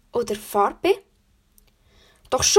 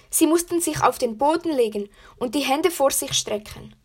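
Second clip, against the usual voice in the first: shaky breathless pleading. Acted. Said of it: "erzählt mit zitternder Stimme".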